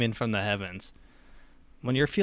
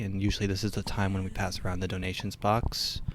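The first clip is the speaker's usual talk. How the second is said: understated church-leader patter, slightly lowered; mock preacher; 3 semitones lower than usual. Preacher to congregation passing donations box, mock-earnest. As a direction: ease into a low-key collection pitch.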